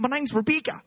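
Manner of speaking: put-on high-pitched New Zealand accent; mock Kiwi accent. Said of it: "it's how Kiwis talk".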